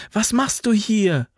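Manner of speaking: high called question; calling out. A narrator's reading. Alva calling out to the young soldier. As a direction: call it across to him. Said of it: "rief sie".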